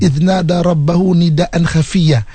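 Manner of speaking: slow gentle recitation. Shown as a demonstration. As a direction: recite it tenderly. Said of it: "cakap yang lembut".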